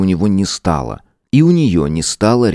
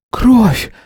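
higher, louder gasp of horror; gasping in shock; 4 dB louder than usual. Acted. Sveta sees blood on her fingers, gasping in higher, louder shock. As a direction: cry out at the sight of blood. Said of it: "ахнула она".

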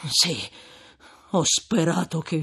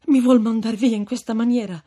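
raised voice, higher; anxious plea; 6 semitones higher, 8 dB louder, faster than usual. Acted. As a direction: beg desperately. Supplica poi replica severa. (supplica agitata)

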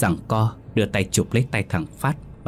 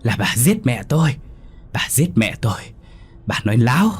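screaming accusation, much louder and higher; furious shout; 6 semitones higher, 4 dB louder than usual. A narrator's reading. Possessed boy screams at his grandmother that she lied. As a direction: yell it at her, pitch climbing on the second nói láo. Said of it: "Nó hét lớn".

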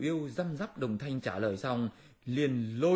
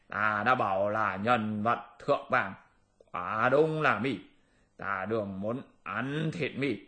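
gloating demon king; slower than usual. Acted. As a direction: savour every word of the threat. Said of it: "khanh khách cười to nói".

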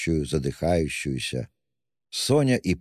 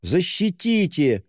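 drawn-out high plea, stretched slow; crying out; 13 semitones higher, slower than usual. A narrator's reading. Widow cries out to the official, high and drawn out. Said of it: "закричала она чиновнику".

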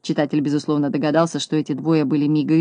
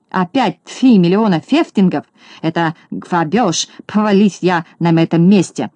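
indignant yell; 3 dB louder than usual. Acted. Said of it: "закричал Скуперфильд".

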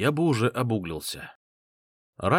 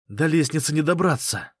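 complaining; 6 semitones higher than usual. Acted. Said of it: "пожаловался Рави".

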